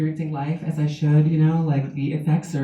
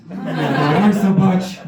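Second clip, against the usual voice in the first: gay fan voice; much slower than usual. Acted. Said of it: "the voice comes back".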